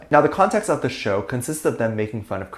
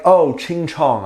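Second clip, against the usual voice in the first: slow, louder mock of a racist caricature; mocking racist imitation; 4 semitones higher, 5 dB louder, much slower than usual. Showing viewers how racist mockery sounds, slow mocking imitation. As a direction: imitate the ignorant mocker with disdain.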